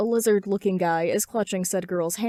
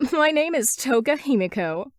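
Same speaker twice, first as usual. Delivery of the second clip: put-on high, bright girlish voice; high bubbly girl; Toga's voice; 6 semitones higher, 6 dB louder than usual. A narrator's reading. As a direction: play a giddy, eager girl introducing herself.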